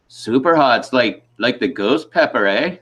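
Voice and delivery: imitated Canadian officer asking; Canadian accent. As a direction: question it in a mock Canadian accent. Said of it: "first I gotta do the accent".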